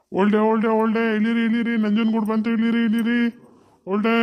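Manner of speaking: loud call to get off; conductor calling out. Acted. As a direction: call the stop to the whole bus. Conductor calls passengers off bus. (Conductor ಪ್ರಯಾಣಿಕರಿಗೆ ಜೋರಾಗಿ ಇಳಿಯಿರಿ ಎಂದು ಕೂಗುವುದು)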